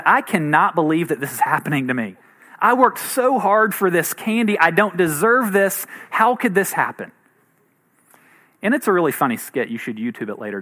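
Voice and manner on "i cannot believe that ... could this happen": mock outraged child, emphatic on each phrase; hammed-up sense of being wronged; indignant kid. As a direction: imitate a kid's incredulous protest. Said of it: "had the attitude that basically said".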